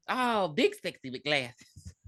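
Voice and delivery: slow, drawn-out flirty purr; lightly voiced seductive actress; slow flirty quote. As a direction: savor each word like a come-on. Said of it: "who said".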